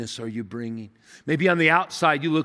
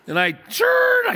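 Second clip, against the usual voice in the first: laughing; 7 dB louder than usual. Real, not acted. Laughing while retelling the stop.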